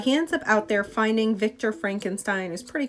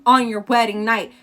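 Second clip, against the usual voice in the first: vengeful vow; 6 dB louder than usual. Retold or imitated. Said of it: "he's like".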